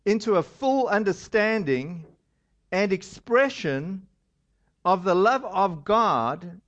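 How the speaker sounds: slow, measured verse reading; scripture reading. Acted. Pastor reads verse to church, slow and solemn. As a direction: read the verse like a blessing.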